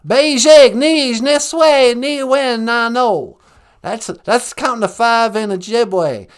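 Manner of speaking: "Bejig, Nij, Niswe" in a brash Texan voice; cocky Texan counting; Bush voice counting. Acted. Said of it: "I know how to count to five, boy".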